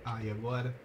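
usual speaking voice

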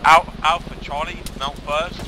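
shouted order. Real, not acted. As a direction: bark the order. Ordering squads to mount.

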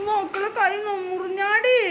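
slow, drawn-out sympathetic cooing; cooing sympathy. Real, not acted. Teacher to child with a cut hand, cooing sympathy. Comforting a hurt, crying child.

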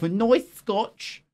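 "nice scotch" said with exaggerated relish; affected pronunciation. Shown as a demonstration. Presenter shows how you gotta say it, relishing "nice scotch". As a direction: show off "nice scotch", stretching both words. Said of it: "you gotta say it like that".

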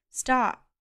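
loud, high final stop; last warning before firing; desperate shout. Acted.

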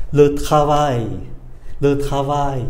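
"Le travail" with a tiny schwa after it; faint final schwa. Shown as a demonstration. Teacher points out a small sound behind, faint final schwa. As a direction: finish "travail" on a small, light off-glide. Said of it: "Có chữ ơ nhỏ nhỏ phía sau".

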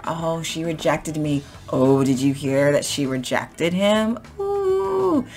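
gossipy. Shown as a demonstration. Telling a friend who rejected whom, gossipy. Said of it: "it's kind of mean 'cause you're gossiping".

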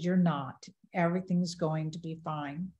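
retold gentle reassurance; calm a frightened sister softly; quiet reassurance. Reassuring sister who feared dying.

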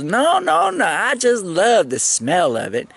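high, lightly voiced quick denial; imitating the lady's denial. The sergeant denying she smokes, in a high mock woman's voice. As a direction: wave it off like she would.

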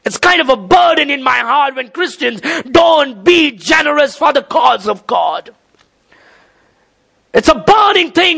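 emphatic, burdened pulpit appeal; passionate preaching. Real, not acted. Preacher lamenting uncommitted Christians, passionate preaching. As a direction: preach it from a burning heart. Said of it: "it's a passionate thing that's in my heart".

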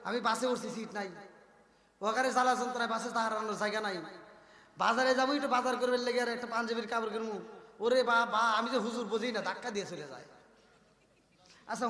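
ordinary talk, nothing marked

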